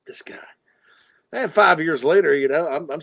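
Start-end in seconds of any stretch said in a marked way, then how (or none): 0.1-0.3 much softer, lower mock admiration; swooning girls. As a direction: imitate swooning girls in a hushed, near-whisper voice. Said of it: "all the girls".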